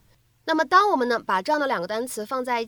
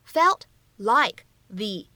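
"felt like the" slowly, each word apart; slow, spaced-out "felt like the"; separate words; 2 semitones lower, 3 dB louder, much slower than usual. Shown as a demonstration. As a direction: give "felt", "like", "the" one at a time, "the" as "thee". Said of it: "这样的三个单词".

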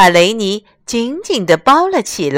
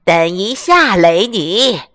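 hoarse duck voice; slower than usual. Acted. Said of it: "她用沙哑的嗓音说".

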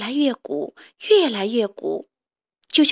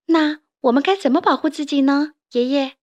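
little toad voice; 3 semitones higher than usual. Acted. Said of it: "小蛤蟆问".

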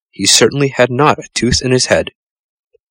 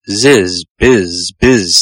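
bee voice; 4 dB louder, much slower than usual. Acted. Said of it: "said the bumblebee".

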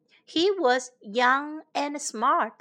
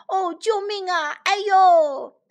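put-on higher, louder old king's wail with a pained ouch; hammed-up cry of pain; 6 semitones higher, 5 dB louder than usual. Lost old king in the woods, mock wail of pain. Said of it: "国王叫道".

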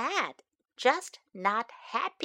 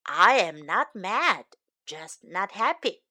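a hint of a lower, patient father; lightly voiced dad; 4 semitones lower than usual. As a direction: say it as a calm dad. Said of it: "Dad says".

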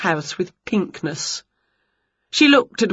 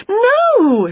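high, loud cry of alarm; horrified cry; 6 dB louder than usual. A narrator's reading. Winnie sees the wand aimed at Wilbur, high cry. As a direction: shout it high to stop her.

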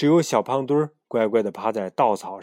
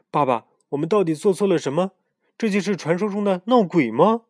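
put-on curious child; 8 semitones higher, 6 dB louder than usual. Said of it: "好奇地问".

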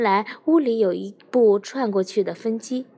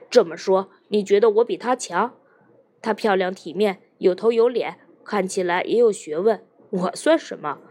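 bitter challenge. Acted. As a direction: throw the question back at her bitterly. Husband's bitter self-deprecating challenge. (妻子面前丈夫自嘲地质问：苦涩不甘)

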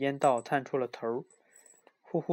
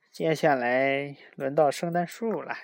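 gleeful Grinch; 6 dB louder than usual. Acted. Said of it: "他呲牙咧嘴，笑嘻嘻".

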